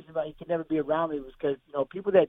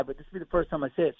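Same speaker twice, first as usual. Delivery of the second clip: holding back tears; 4 dB quieter, faster than usual. Real, not acted. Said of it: "and I'll try not to cry".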